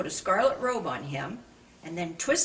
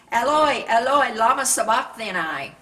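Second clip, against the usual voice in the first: loud anguished cry, higher; 5 semitones higher, 10 dB louder than usual. A narrator's reading. Jesus crying out to God from the cross, loud anguished cry. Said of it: "cried out in a loud voice".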